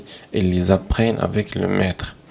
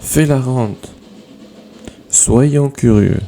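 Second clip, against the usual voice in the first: loud drilled commands; 4 semitones higher, 5 dB louder than usual. Shown as a demonstration. Teacher reading imperative examples.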